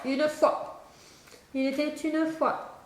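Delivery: il était une fois said slowly, word by word; slow dictation. Shown as a demonstration. Spelling lesson, dictating il était une fois slowly. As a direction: dictate it slowly for a pupil to write. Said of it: "comment t'écris une fois".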